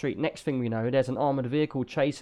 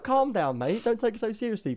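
mock calm down; 9 semitones higher than usual. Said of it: "I was like".

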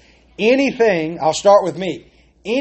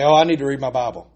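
bored rushed reading; faster than usual. Retold or imitated. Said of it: "we'll say".

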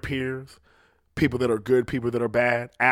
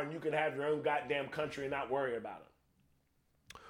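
higher, much softer scheming pitch; conspiratorial colonist; 5 semitones higher, 7 dB quieter than usual. Acted. Colonist talking the French into a fight, conspiratorial. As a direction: coax an ally in a high, hushed voice.

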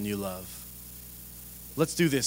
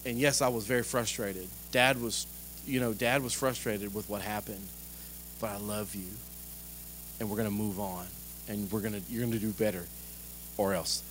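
calm dad talk; 3 semitones lower, 5 dB quieter than usual. Retold or imitated. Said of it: "we teach that to our kids".

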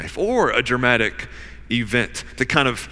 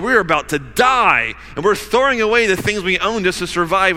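panicked sailors; 7 semitones higher, 5 dB louder than usual. Acted.

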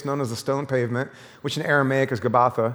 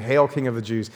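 sarcastic; 5 semitones lower than usual. Acted. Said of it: "They're being sarcastic here".

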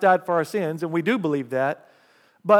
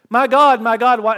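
anguished cry out; 4 semitones higher, 7 dB louder than usual. Acted. Crying out the psalm's words.

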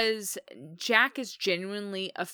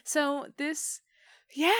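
laughing; 10 semitones higher, 10 dB louder, slower than usual. Real, not acted. Reacting to handed scene.

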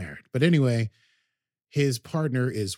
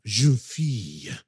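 slow, hammed-up French accent; mock a villain's over-the-top French accent; Picard's awful French accent as the scarred handler; 3 dB louder, slower than usual. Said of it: "and an awful French accent".

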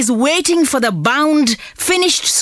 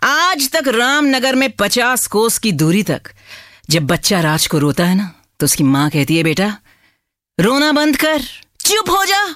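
Gabbar Singh; much faster than usual. Acted. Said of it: "So he came out of the cinema and he said".

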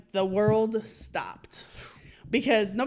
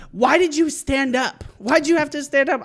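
slightly raised, scolding mom; retold mother's lecture; 4 semitones higher, 4 dB louder than usual. Mother lecturing on the drive home, imitated scolding. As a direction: imitate a mom telling you off, pitched up. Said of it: "I got lectured for forty-five minutes".

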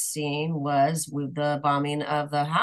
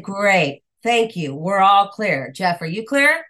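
tag; 5 dB louder, slower than usual. Retold or imitated. Mock confident reply to director.

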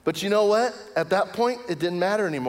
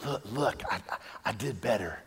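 mock bragging; 5 semitones lower, 8 dB quieter than usual. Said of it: "I start flying around".

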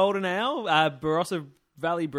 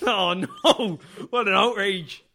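mock outrage; 4 semitones higher, 5 dB louder, much slower than usual. Mock horror at uncool siblings.

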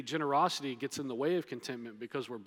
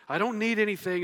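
mock insincere; 7 semitones higher, 6 dB louder than usual. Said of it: "as if he's like".

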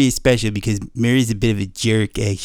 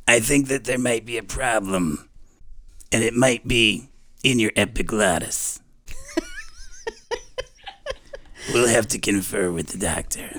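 nurse bird voice. Acted. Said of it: "she talks like this".

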